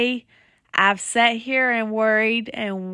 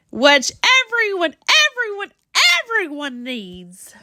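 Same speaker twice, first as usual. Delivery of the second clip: angry yell; 3 semitones higher than usual. Acted. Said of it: "I got terribly mad".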